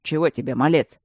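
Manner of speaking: gruff, unwelcoming question; unfriendly. Acted. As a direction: brush the kid off gruffly. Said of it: "недружелюбно спросил Камен".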